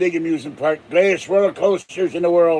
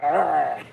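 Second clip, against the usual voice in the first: pirate arr; 3 dB quieter than usual. Pretend. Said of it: "talk like a pirate like that".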